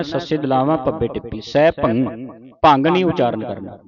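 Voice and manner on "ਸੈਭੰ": ਸੈਭੰ as sai-bhang, ending in ng; nasal -ang ending. Shown as a demonstration. Teacher showing students the correct reading, nasal -ang ending. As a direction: close ਸੈਭੰ on a ringing ng. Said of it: "ਸੈਭੰ ਬੋਲਣਾ ਹੈ".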